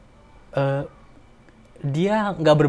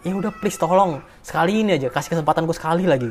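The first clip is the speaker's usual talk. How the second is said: raised, urgent begging; mild desperate plea; 3 semitones higher than usual. Retold or imitated. Begging God to give his father back, urgently. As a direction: beg for one more chance.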